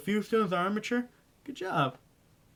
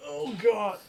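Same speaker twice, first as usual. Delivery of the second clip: embarrassed exclamation; 7 semitones higher than usual. Real, not acted. Embarrassed at own blunder.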